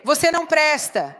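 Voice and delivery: harsh accusation. Shown as a demonstration. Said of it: "em vez de dizer".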